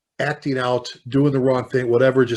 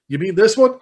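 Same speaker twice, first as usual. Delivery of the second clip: retold delighted reply; 7 semitones higher, 7 dB louder than usual.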